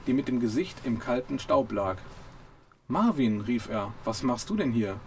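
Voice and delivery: reading a novel passage aloud; lively audiobook narration with character voices; story reading. A narrator's reading. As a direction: read it like an audiobook chapter. Reads book passage aloud.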